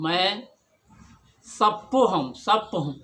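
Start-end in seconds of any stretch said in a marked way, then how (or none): 1.5-2.3 "सप्पो" with the r dropped; childlike lisped pronunciation. Retold or imitated. Child Sheshnag repeats his answer to mother, lisped pronunciation. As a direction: say "सप्पो" with a doubled p, no r. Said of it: "तोतली आवाज़ में बोलते हैं".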